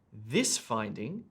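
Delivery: "this" set out with emphasis before "finding"; stress on THIS. Shown as a demonstration. Teacher shows test takers the emphasised pronoun, stress on "this". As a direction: lean on "this", then ease into "finding". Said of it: "Then the pronoun this".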